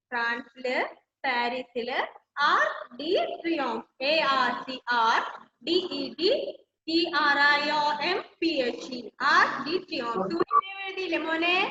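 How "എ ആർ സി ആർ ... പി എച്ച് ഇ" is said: each letter said separately and distinctly; spelling out letters. Shown as a demonstration. Teacher dictating the spelling of Triomphe to students, letter by letter. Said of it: "spelling the word for class".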